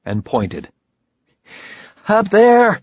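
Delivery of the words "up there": high, loud yell over noise. Acted. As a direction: shout over the engine roar. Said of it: "he yelled over the engine noise".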